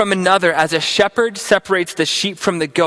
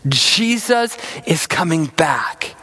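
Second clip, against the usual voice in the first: slow, softer reassuring reminder; soft reassurance; 2 semitones lower, slower than usual. Acted. Pastor reminding listeners at home, soft and slow. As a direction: let it settle gently on them. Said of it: "just remind yourself".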